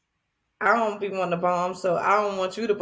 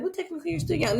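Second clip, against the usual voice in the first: mock excuse; 9 semitones higher, 4 dB quieter, much faster than usual.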